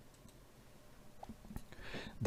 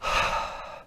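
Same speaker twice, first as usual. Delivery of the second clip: sigh; 4 dB quieter than usual. Acted. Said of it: "woke up and sighed".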